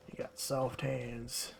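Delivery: murmured slow southern "soft hands"; southern accent. Pretend. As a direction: lean back and drawl "soft hands" quietly in southern accent. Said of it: "southern accent".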